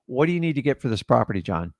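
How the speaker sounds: suggested phrasing. Shown as a demonstration. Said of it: "reverse engineer it".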